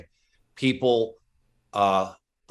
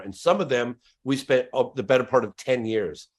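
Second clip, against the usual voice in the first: ordinary talk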